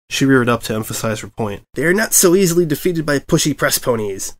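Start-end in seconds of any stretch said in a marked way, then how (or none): 1.7-4.3 high, proud declaration; grand Pinkie boast. A narrator's reading. Pinkie boasts about her parties, high and grand. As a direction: proclaim it like a battle cry.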